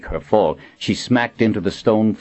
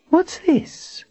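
sneering question. Acted. Villain picks up book.

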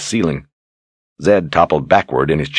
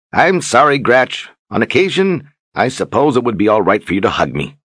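put-on fussy old wizard; 6 semitones higher than usual. Zed apologises grudgingly.

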